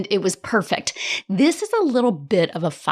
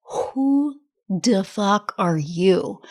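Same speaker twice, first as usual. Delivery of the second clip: astonished quote; much slower than usual. Retold or imitated. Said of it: "everybody there was like".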